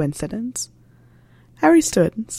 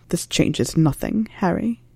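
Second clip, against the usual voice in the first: soft plea; slower than usual. Acted. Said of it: "his voice softer, nearly a plea".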